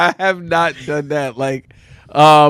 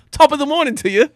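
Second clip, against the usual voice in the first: high, playful Irish lilt; mock Irish greeting; 9 semitones higher than usual. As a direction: hail someone like a stage Irishman. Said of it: "If you come to me and be like".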